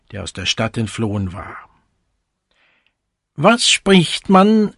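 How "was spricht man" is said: higher, louder, slow mock shout; the vain cuckoo crying out eagerly; storybook cuckoo yelling, higher and louder. A narrator's reading. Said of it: "fing er an zu schreien".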